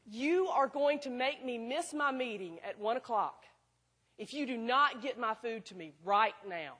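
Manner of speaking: slow, emphatic scolding with the volume held down; restrained imitation of a yelling customer; mock yell, each word leaned on; retold angry yell. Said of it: "She yells this".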